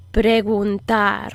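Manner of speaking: airy fricative G in Preguntar; slow Preguntar with a soft, loose G. Shown as a demonstration. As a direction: let air through the G of Preguntar at the back of the throat. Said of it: "This is a soft G".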